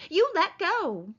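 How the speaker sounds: high, slow, desperate; frightened cry. Acted. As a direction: plead in terror. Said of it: "she cried".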